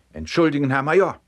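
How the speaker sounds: mildly alarmed soldier's apology; flustered apology. A narrator's reading. Frightened soldier's escalating apologies.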